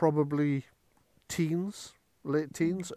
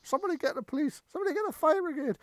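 high, hurried crowd voice; panicking neighbours; much faster than usual. Acted. Game master as neighbours when chaos breaks out, high panicky calls. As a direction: pitch it way up, urgent onlookers.

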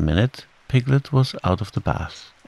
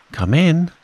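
high, loud singsong summons; calling out; 9 semitones higher, 6 dB louder than usual. A narrator's reading. Kanga answers a knock, calling out high and loud. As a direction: call to someone at the door.

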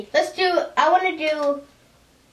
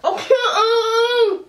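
eating sour candy; 6 semitones higher, much slower than usual. Real, not acted. Chewing sour candy, laughing.

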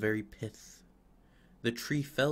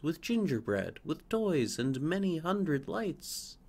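higher, chattering bird voices; excited sparrows; 5 semitones higher than usual. Acted. Sparrows describing the decorated trees in town. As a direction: gossip it out like sparrows.

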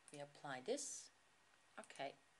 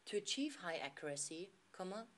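careful dictation, speaking each punctuation mark; slow dictation with punctuation. Shown as a demonstration. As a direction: read clearly for voice training, naming punctuation. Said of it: "read the text to configure your microphone".

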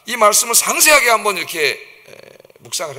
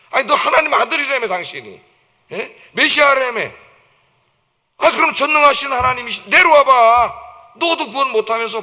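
jeering taunt; 4 semitones higher, 3 dB louder than usual. Retold or imitated. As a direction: sneer up at him from the road. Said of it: "그 조롱하고 지나가는".

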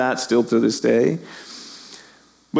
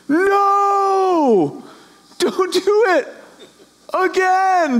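mock shout; much slower than usual. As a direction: yell at the characters in the story. Reader shouting at story characters.

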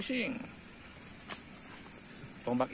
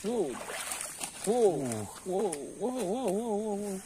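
excited; 8 semitones higher than usual. Real, not acted. Excited at the catch.

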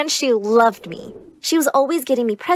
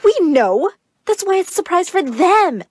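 raised, impatient parent voice; dismissive parent; 4 semitones higher, 3 dB louder than usual. Acted. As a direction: brush the child off. Parent snaps back at child.

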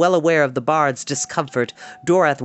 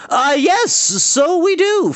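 much higher, slow, eager; bard's hasty agreement; 6 dB louder, slower than usual. A narrator's reading. Bard hastily agreeing with Tarn, high nervous voice. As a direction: squeak out a nervous yes. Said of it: "Fluter put in".

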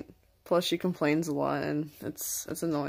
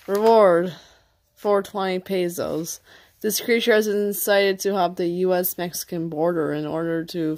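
nature documentary; 4 dB louder than usual. Acted. Mock wanted poster documentary read.

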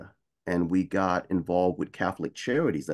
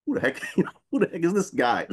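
imitating surprised owner; 10 semitones higher, faster than usual. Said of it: "he turned around and was like".

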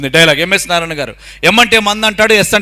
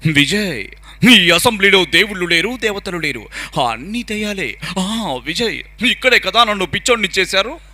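lightly voiced intense film dialogue; serious actor impression, words weighted and sinking softer; Sai Kumar, serious; 4 dB quieter than usual. Mimic showing the actor's serious assembly dialogue, controlled dramatic intensity. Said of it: "పవర్ఫుల్గా చెప్తారు".

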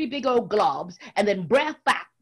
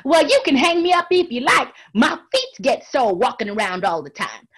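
high, loud, pleading rabbit; frightened rabbit faking bravado; hiding fear; 7 semitones higher, 7 dB louder than usual. Acted. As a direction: beg them, feigning calm. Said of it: "he didn't let on".

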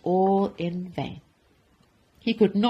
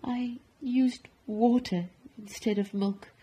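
higher, halting, sheepish confession; shamefaced admission; 5 semitones higher than usual. Acted. Baker confessing to the Duke, shamefaced. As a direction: confess it meekly. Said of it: "Walter admitted, hanging his head in shame".

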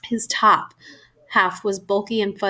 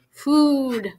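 drawn-out, higher-pitched groan; 4 semitones higher than usual. A narrator's reading. Hurt friend coming round in the back seat, groaning. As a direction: groan the word as if half-conscious. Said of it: "Then he groaned".

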